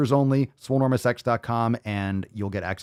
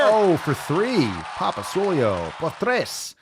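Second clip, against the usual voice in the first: hype announcer; 8 semitones higher, 3 dB louder, slower than usual. Pretend. Hyping himself like a sportscaster.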